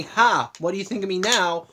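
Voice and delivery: mocking. Amethyst taunting Garnet after reforming, lightly mocking. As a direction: tease them as if you've won. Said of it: "like a mocking manner".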